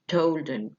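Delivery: "Told him" run together as "tol-dim"; no H in "him", joined to "Told"; dropped H. Shown as a demonstration. Teacher showing the H falls away, words linked. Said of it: "بتسقط".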